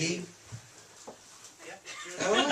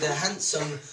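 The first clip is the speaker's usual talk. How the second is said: mock French accent; slower than usual. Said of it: "She said".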